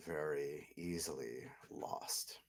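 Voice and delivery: slow menacing whisper. Acted. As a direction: breathe the threat slowly. Lord's veiled threat.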